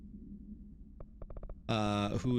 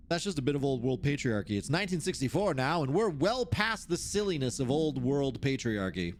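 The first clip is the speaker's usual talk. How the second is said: measured, formal reading voice; document read-aloud. Acted. Researcher reads out notes on the oldest house, formal read-aloud.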